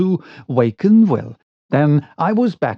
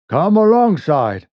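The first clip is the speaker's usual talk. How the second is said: raised call across the water; exclaiming; 4 semitones higher, 4 dB louder than usual. Acted. Will urges the boatman alongside, raised exclamation. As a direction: invite the boat in, calling out. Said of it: "exclaimed Will".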